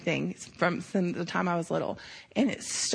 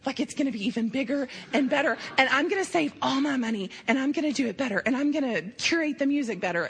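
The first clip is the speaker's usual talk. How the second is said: quick, higher, tumbling eager promises; excited boy; 3 semitones higher, faster than usual. Retold or imitated. The boy telling her about next year, imitated with excitement. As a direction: rush it out like an eager kid planning. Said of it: "he is, like, so excited".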